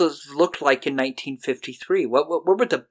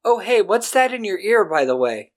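taunting conscience; 4 semitones higher than usual. Retold or imitated. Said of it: "the conscience is like".

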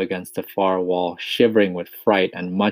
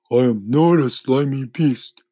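higher, louder indignant denial; indignant earthworm; 6 semitones higher, 6 dB louder than usual. A narrator's reading. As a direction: deny it as an offended earthworm. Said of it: "the earthworm said".

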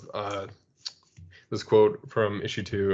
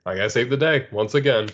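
smug Lex Luthor; 3 semitones higher, 5 dB louder than usual. Retold or imitated. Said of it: "He's like".

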